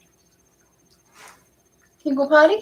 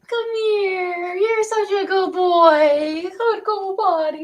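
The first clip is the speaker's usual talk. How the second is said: tearful praise; 4 semitones higher, slower than usual. Real, not acted. Praising puppy, voice crying.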